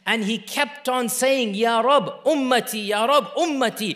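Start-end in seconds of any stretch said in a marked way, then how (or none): 1.5-4.0 insistent, raised-voice retold plea; fervent chant-like repetition without tears; repeated begging. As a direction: keep imploring, phrase after phrase. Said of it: "repeating and crying and begging".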